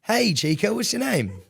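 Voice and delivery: high playful pickup line; sing-song flirt. Pretend. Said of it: "Okay, fine".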